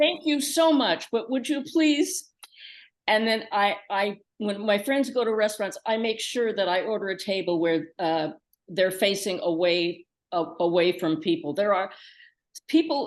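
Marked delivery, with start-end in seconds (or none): 0.0-2.3 very loud, higher-pitched put-on voice. Retelling a star speaking up in a restaurant where everyone stared: imitating a very loud voice. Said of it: "said in a very loud voice".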